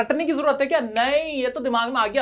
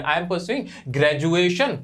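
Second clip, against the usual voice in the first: "I am pursuing graduation" spoken very slowly and deliberately; slow careful model; 4 semitones lower, much slower than usual. Shown as a demonstration. Teacher models what students should say about their course. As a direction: spell it out slowly for learners. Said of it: "तो वो डाल दोगे".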